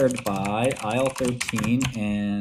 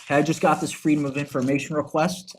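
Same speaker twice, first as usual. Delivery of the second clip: lightly put-on reporter voice; a hint of a reporter announcing a scoop; news reporter; 4 semitones higher than usual. Conference heckler announcing documents like a news reporter, mock-reporter voice. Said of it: "Like a news reporter".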